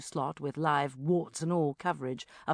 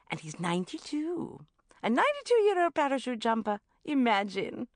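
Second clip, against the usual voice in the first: bubbly mum bursting with news; mother ringing her daughter at work; 6 semitones higher than usual. Acted. Mum on phone.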